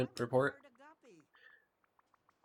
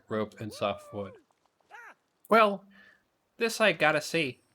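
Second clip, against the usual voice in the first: suspicious cartoon monster voice; 3 dB louder than usual. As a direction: perk up suspiciously. Mike curious about project.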